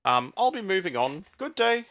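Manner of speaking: calm the frightened raider politely; polite robot butler. Acted.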